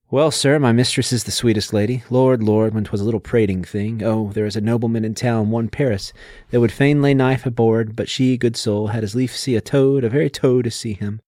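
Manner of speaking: lightly conversational prose reading of the nurse. Shown as a demonstration. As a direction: read Shakespeare's prose as just talking. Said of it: "It's just less formal".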